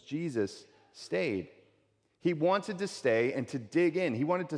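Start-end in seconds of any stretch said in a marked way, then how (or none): 0.0-1.5 slow, with "stayed" held long; pause, then land on "stayed"; "stayed" drawn out as the key word; emphatic STAYED. Shown as a demonstration. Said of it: "That's the emphatic main verb".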